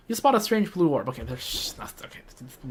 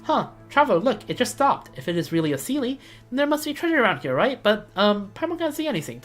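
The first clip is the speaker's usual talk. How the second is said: Paimon voice; 6 semitones higher than usual. Acted. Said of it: "too tired to do Paimon voice".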